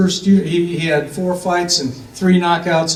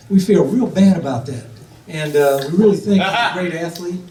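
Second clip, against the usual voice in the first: lightly imitated Texas coach; Texas accent; 2 semitones higher than usual. Coach praising an injured player, in a light put-on Texas accent. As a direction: speak as a coach with a hint of Texas. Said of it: "Is that my Texas accent?".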